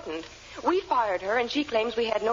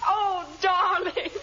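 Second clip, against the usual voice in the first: slow, higher, melting over every word; gushing darling; 5 semitones higher, slower than usual. Acted. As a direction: swoon over him, stretching it out. Wife gushes over returned husband.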